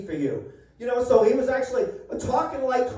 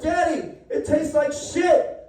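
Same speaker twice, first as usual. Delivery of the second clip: mock daughter complaint; 3 semitones higher, slower than usual. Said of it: "and she goes".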